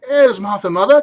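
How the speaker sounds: put-on high, loud children's chorus; children crying out. Young Cratchits cry out excitedly to their mother. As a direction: shout it gleefully. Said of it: "cried two young Cratchits".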